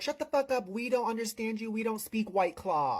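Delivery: high, rapid retold comeback; heckling retort. Retelling her comeback to the man being pushed out, heckling. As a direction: fire it back over the yelling.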